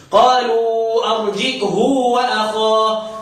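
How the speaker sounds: drawn-out Quranic reciting; tajweed-style slow chant; slow recitation. Shown as a demonstration. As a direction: recite slowly, stretching the vowels. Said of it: "Quranic recitation demo".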